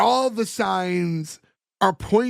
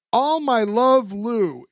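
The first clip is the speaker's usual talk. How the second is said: slow letter reading; 3 semitones higher, much slower than usual. Retold or imitated. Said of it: "and goes".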